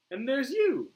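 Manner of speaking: high, loud Australian jab; Australian accent. Acted. Boomer taunts Flag, Australian accent.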